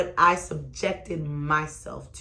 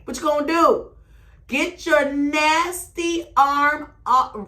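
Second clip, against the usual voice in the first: angry retort; 10 semitones higher, 7 dB louder, slower than usual. Retold or imitated. Retelling angry confrontation.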